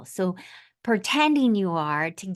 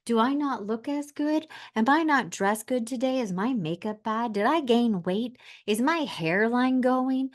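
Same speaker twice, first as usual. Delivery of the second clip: higher, anxious self-questioning; worried inner voice, pitched up; imagined insecure inner voice; 6 semitones higher than usual. Pretend. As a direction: fret like someone checking the mirror. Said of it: "I bet you think".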